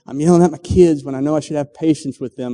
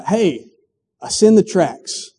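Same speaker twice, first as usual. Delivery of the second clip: Moses calling out; 4 semitones higher, slower than usual. Acted.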